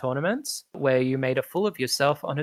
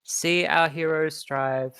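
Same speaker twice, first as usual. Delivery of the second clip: high, pompous announcer hushing a crowd; announcer Sundancer; 4 semitones higher than usual. Acted. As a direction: settle the rowdy crowd with authority.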